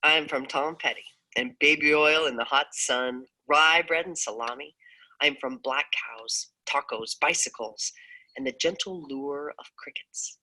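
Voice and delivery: measured, earnest poem recital; spoken-word reading of a personal poem. Acted.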